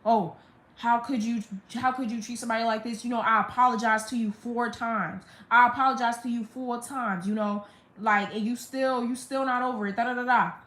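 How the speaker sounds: lightly imitating a confrontational complaint; retold reproach trailing into dismissive da-da-da; mock confrontational. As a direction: press the accusation, retelling it mockingly. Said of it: "she's being very confrontational".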